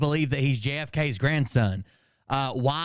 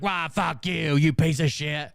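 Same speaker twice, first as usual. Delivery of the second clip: imitation of an angry outburst, slightly raised; mock cussing out; 2 semitones higher than usual. Streamer imitating chat members swearing at Phil, mock-angry. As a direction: play at cussing someone out.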